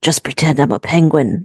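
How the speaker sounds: low, rough, gravelly close-in voice. Retelling a drama character's line in her ear: imitating a gravelly half-whisper. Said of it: "with that gravelly whispered voice in her ear".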